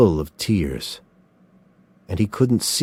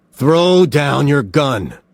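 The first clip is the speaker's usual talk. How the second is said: "Throw down your gun." slow and measured, leaning on throw; steady commanding insistence; firm order; 6 semitones higher, 4 dB louder, slower than usual. A narrator's reading. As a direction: calmer repeated order. Somerset repeats order more firmly.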